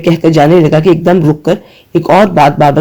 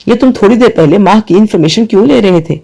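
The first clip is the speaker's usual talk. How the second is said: higher, mildly raised demand; 4 semitones higher than usual. Acted. Ali on the phone demanding answers, voice raised higher. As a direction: fire the question back at him. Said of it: "علی بھی تیز آواز میں بولا".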